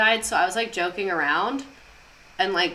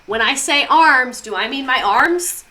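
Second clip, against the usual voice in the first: slow, loud rhetorical question rising on arms; milk the pun for the class; teasing bit; 3 semitones higher, 6 dB louder than usual. Retold or imitated. Repeats a teasing joke from class.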